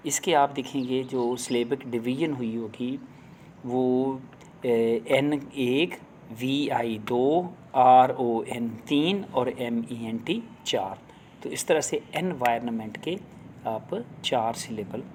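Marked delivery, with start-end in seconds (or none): 3.7-11.0 slow syllable count. Shown as a demonstration. Teacher slowly counting syllables of environment for teachers. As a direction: count the parts out very slowly, one by one.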